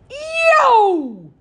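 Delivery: loud, high yelp; sudden shout. Acted. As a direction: shout it out as he strikes. Raven jab shout.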